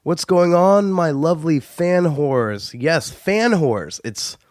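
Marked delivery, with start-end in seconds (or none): 0.9-4.0 fan whores drawn out slowly, stress on fan; savoring new term. Real, not acted. Host greeting listeners, relishing the nickname fan whores. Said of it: "it sounds good".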